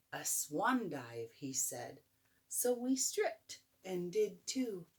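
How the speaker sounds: gentle storybook reading; bedtime story. A narrator's reading. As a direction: read it like a bedtime book. Reads picture book aloud.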